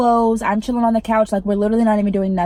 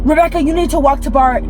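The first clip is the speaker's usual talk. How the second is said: mild mock freak-out, higher pitched; retold freak-out; 4 semitones higher, 4 dB louder than usual. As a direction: imitate someone starting to panic, only lightly. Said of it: "she starts fucking freaking out".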